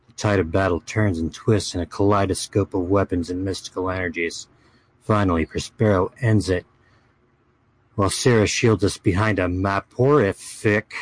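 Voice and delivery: dramatic fantasy chronicle reading; story narration. Acted. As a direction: read it like an epic saga. Reads a fantasy chronicle aloud.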